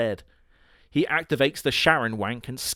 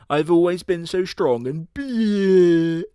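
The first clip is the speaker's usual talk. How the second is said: louder, slow, higher and hammy; mock macho boast; 6 semitones higher, 7 dB louder, slower than usual. Muscle villain boasting to his rival, loud and hammy. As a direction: puff up like a gym bro.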